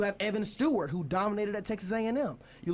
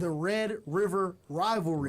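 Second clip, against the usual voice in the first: "Red River rivalry" said slowly, word by word; careful tongue twister; slower than usual. Real, not acted. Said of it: "That is a tongue tw".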